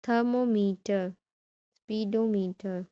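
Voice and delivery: "Thermometer", "speedometer" said slowly, syllable by syllable; drawn-out word stress. Shown as a demonstration. Teacher gives examples ending with meter, slow "Thermometer", "speedometer". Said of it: "have the stress on the last syllable".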